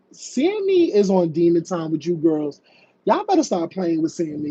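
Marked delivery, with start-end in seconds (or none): 3.0-4.5 brisk, fast warning; quick warning. Real, not acted. Host warning the girls about Sammy, quick warning.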